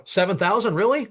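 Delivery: high-pitched questioning surprise; incredulous. Retold or imitated. Caller hears the price for the work, incredulous. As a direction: echo the figure in disbelief. Reacts to price in retold talk.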